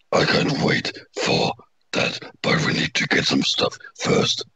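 breathy whisper. Acted. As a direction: whisper it like a secret. Quote read whispering.

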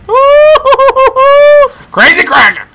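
high, loud, startled ooh; a sudden squeal of surprise; surprised ooh. Real, not acted. Gamer reacting to a strange player, high surprised ooh. Spots a new enemy.

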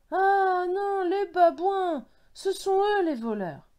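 high, loud dismayed exclamation; outraged cry. A narrator's reading. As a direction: cry out on discovering the thieves. Discovers the bananas were stolen.

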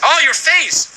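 high-pitched horrified exclamation; startled outcry. Real, not acted. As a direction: cry out at a hideous sight, pitch jumping up. Startled by creature in game.

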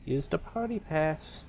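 playful put-on British accent. Player owning up to using a party pass, British accent. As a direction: slip into a mock British voice. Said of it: "I'm doing that British accent".

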